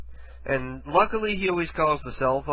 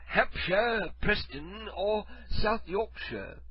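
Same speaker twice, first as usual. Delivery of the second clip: higher, drawn-out British place names; mock British accent; 6 semitones higher, 3 dB quieter, much slower than usual. Caller reading out U K places in a mock British accent. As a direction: read them in fake British. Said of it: "fake British accent".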